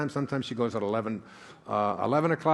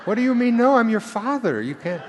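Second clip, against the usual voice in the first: high, loud mock outrage at the kids; mock-indignant father scolding his kids; indignant dad; 12 semitones higher, 8 dB louder than usual. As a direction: play the wounded father, hammed up. Imagined kids refusing to help.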